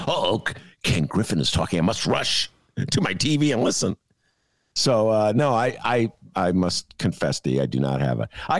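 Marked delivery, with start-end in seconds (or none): 0.1-4.0 mock eager fan. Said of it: "I don't sit there and".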